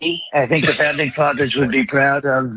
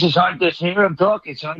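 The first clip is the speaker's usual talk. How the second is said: Bobby. Retold or imitated. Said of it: "You can't make fun of his voice".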